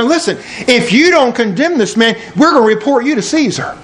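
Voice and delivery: mildly acted, pressing warning; threatening crowd. Jewish leaders warn Mister Pilate about Caesar, mildly threatening. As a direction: lay down an ultimatum, lightly dramatized. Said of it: "we're gonna threaten you right now".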